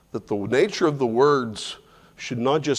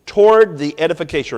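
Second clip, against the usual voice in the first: "Toward" hit first, the rest quicker; stress on toward; 2 semitones higher, 4 dB louder, faster than usual. Shown as a demonstration. Teacher repeating the verse to stress "Toward". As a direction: punch "Toward" and move on. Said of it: "for emphasis".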